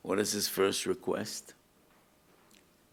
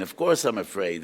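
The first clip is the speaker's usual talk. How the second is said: Of course I'm afraid said louder, with weight on course; repeating it louder for emphasis; insistent; 7 dB louder than usual. Acted. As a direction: press the words home as a firm admission. Akiva repeats it with force.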